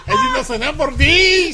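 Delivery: laughing repeat. Real, not acted.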